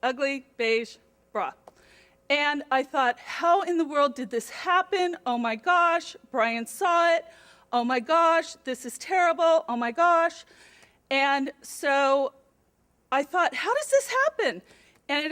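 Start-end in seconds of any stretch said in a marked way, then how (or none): 3.2-10.4 higher, louder frantic inner panic; retold panic. Mom realizing her boss saw the bra, higher, louder panic. 13.5-14.6 squeaked much higher in disbelief; a high baffled squeal of confusion; bewildered. Retold or imitated. Mom puzzling over the bra in the car, high bewildered squeak. Bewildered thought after the panic.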